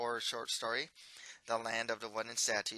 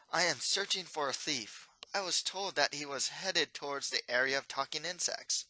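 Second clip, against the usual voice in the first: lightly raised, earnest prince; a dutiful young royal; 3 semitones higher than usual. Acted. Voices the Mustard Prince.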